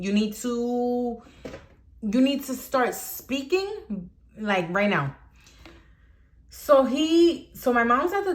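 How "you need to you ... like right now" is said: serious demand. Retold or imitated. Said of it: "Now I'm getting serious".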